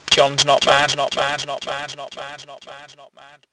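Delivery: repeated, fading away to nothing. Acted. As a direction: let it die away each time.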